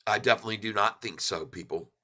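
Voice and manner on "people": yawning while talking. Real, not acted. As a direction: say it through a yawn. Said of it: "pardon me for yawning".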